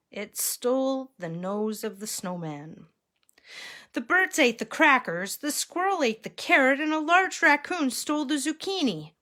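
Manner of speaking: animated storytime reading; story narration. A narrator's reading. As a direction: build the list in a lifted pitch. Reads picture book to children.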